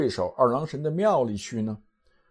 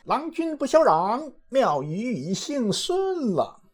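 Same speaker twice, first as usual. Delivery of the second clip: high-pitched, drawn-out calling out; theatrical high cry from a flustered character; Monkey King's urgent cry; 11 semitones higher, slower than usual. Acted. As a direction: call it out urgently, far up in pitch, stretching the end. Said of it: "情急之下高声叫道".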